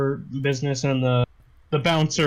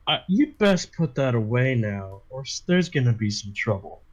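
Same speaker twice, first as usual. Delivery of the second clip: low threatening bouncer; 5 semitones lower than usual. Acted.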